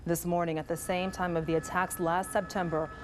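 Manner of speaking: steady, measured newscast delivery; news anchor read. Acted.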